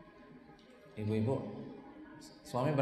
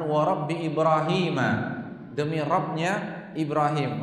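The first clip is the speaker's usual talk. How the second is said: a touch of anger, louder on Ibrahim; firm, slightly raised oath; mildly angry oath; 3 dB louder than usual. Retold or imitated. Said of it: "kalau kamu lagi marah".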